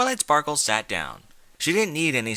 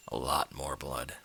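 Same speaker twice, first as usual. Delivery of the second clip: quiet echo; 9 semitones lower, 8 dB quieter than usual. Shown as a demonstration. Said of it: "The difference is there is a lot more blood".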